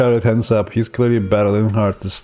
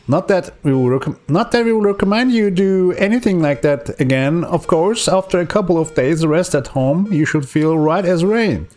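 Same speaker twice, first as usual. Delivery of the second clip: much higher, prim doctor voice; 6 semitones higher than usual. Acted. Doctor reassuring the patient, in a high prim voice. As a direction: play the doctor, up in the head.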